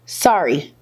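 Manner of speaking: low, tossed-off sorry; insincere apology. Retold or imitated. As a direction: retell a deadpan, grudging apology. First insincere apology, acted.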